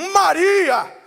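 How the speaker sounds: emphatic acted call; changed tone, calling out. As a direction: call the name out to be recognised. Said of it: "ele muda o tom de voz".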